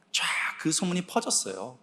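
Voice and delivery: hushed whisper of gossip; softly whispered aside. Real, not acted. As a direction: whisper it like a secret spreading. Rumour spreads through church.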